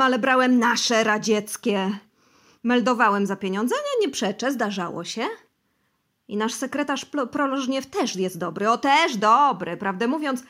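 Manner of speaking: loud, high, feverish confession; emotional confession. Acted. Bosy confesses bribes to the interrogators, loud and feverish. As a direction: confess everything in an emotional rush. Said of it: "ciągnął z uczuciem".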